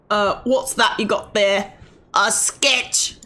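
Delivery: a rough attempt at a British accent; game character in a goofy British accent; horrible British accent. Streamer voicing a game character about a sketch, goofy British accent. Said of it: "Don't worry about my horrible accent".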